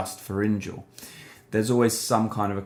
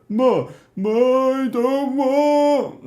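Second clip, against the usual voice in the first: much higher, louder strained yell; low yell; 5 dB louder, much slower than usual. Shown as a demonstration. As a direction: yell it with no nasal buzz. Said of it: "a low yell".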